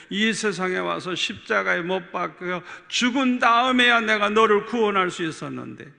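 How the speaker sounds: lightly voiced solemn Lord. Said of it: "주님이 말씀하시더라고요".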